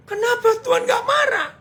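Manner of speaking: high, loud protesting shout; indignant cry to God. Retold or imitated. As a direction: hurl the question up at heaven. Preacher retells his cry to God.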